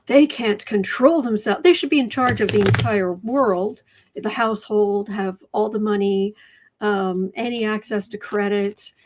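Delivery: bitterly sarcastic, mock agreement; mock the excuses with sarcasm; sarcastic mockery. Answering Debbie, mocking how victims got blamed, sarcastic.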